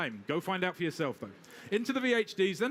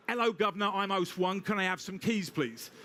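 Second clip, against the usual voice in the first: put-on Oliver Twist accent. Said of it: "put on my Oliver Twist accent".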